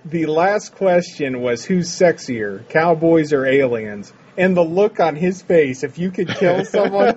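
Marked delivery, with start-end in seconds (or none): 1.6-4.1 slow mock interviewer. S1 quotes interviewer's odd question.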